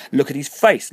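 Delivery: high, loud frantic scream. A narrator's reading. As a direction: shriek it as if seeing a skull. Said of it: "Harriet screamed".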